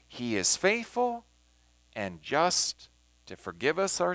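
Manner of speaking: slow, measured scripture reading with pauses. Acted. Teacher reads the passage to the class, measured scripture reading. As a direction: read the verses aloud, pausing between phrases.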